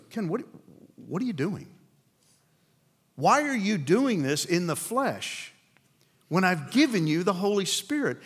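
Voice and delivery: a mild, bewildered God asking why; befuddled God. Retold or imitated. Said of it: "He's not angry. He may be befuddled".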